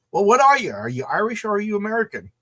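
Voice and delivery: high-pitched retold challenge; mock challenging question. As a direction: put it to him as a pointed, acted question. Acted challenge from Irish bar patrons.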